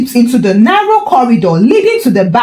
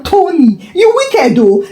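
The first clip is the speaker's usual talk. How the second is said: teasing laugh; 7 semitones higher than usual. Acted. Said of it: "Chike burst into laughter".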